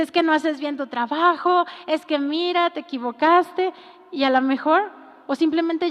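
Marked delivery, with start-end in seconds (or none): 0.0-3.7 scolding boss. Retold or imitated. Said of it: "Y el jefe le dice".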